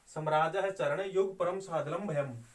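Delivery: the verse chanted through in one measured line; metrical recitation. Shown as a demonstration. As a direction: recite the whole verse evenly. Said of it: "वाचन होता है". (पूरा श्लोक लय में पढ़ना)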